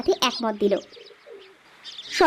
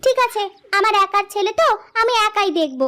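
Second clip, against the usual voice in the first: mildly huffy, higher-pitched retort; huffy wife; 5 semitones higher than usual. Acted. Wife says she'll mind her son alone, mildly huffy. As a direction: take offence as the slighted mother, voice raised in pitch.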